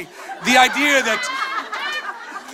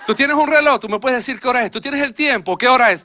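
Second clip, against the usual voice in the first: fluent Spanish; 2 semitones higher, faster than usual. Retold or imitated. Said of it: "when I speak in Spanish to Latinos".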